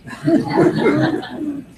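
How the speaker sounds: real laugh. Real, not acted. Audience member laughing at the judge story.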